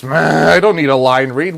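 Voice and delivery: mock an annoyed actor balking, loudly; mock pissed-off actor. Director mimicking an actor refusing a line read, mock annoyed. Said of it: "then they get pissed 'cause you give them a line read".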